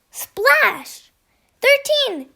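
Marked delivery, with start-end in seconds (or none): 1.6-2.3 a high, loud shout of the answer; excited yell. A narrator's reading. Duckling yelling the sum before Goose can answer. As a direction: blurt it out at the top of her voice. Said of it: "she yelled".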